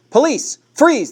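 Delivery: high, loud barked command; police yell. A narrator's reading. Big policeman orders the suspect, loud yell. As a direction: roar the order across the clearing. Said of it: "the big policeman yelled".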